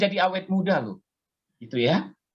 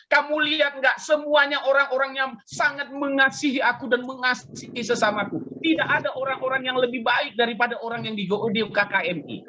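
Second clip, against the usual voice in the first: voice of God; 7 semitones higher than usual. Retold or imitated. Voicing God boasting to the devil.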